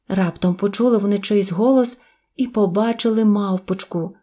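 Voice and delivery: plain reading voice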